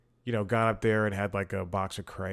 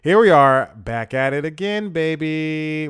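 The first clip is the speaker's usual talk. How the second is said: loud, high showman energy; hyped host opening; 6 semitones higher, 11 dB louder than usual. Acted. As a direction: pump up the crowd like a late-night host. Host hypes the show opening.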